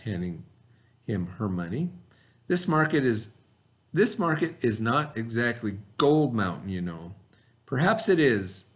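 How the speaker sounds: steady storybook read-aloud for the class; reading aloud to children. Acted. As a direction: read the story to your students, unhurried. Teacher reads story aloud to class.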